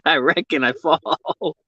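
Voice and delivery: drawn-out Aussie imitation; attempted Aussie accent. Shown as a demonstration. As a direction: stretch it out in a put-on Aussie accent. Repeats his attempted Aussie line.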